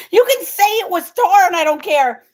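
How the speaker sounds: real amused laugh. Real, not acted. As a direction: laugh it off warmly. Laughing at a viewer's remark.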